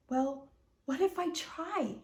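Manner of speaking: sad wondering. Acted. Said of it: "Fern sadly wondered".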